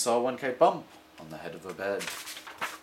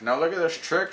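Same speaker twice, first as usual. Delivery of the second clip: showman cat; 6 semitones higher, 5 dB louder than usual. Acted.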